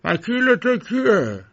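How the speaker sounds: understated irritable demand; bad-tempered yell. Lawyer scolding his client Block, mildly bad-tempered yell.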